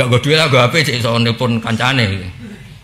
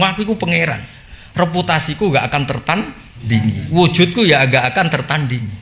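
higher-pitched, affronted assertion; offended; 5 semitones higher than usual. Retold or imitated. God asserting His unmatched reputation to people, offended. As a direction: voice God's wounded authority, pitched up. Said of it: "Ya Allah tersinggung".

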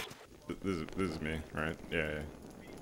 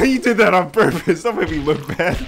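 put-on old man voice; 7 semitones higher, 7 dB louder than usual. Character voice scolding partner.

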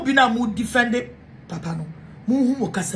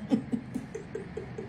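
quiet, voiceless laugh; soft laugh with hardly any voice; 13 dB quieter than usual. Real, not acted. Amused at the critic mid-rant, quiet laugh.

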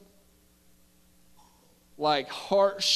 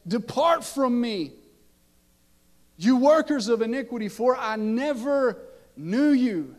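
solemn divine judgment; 6 semitones higher, 4 dB louder than usual. Retold or imitated. Preacher voices the Lord turning away sinners, solemn judgment.

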